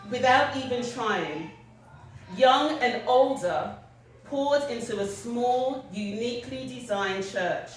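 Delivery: measured literary reading, phrase by phrase; poem recitation. Acted. Writer sharing a piece about a funeral, measured recitation. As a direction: read it out with deliberate pauses between images. Reads own piece aloud.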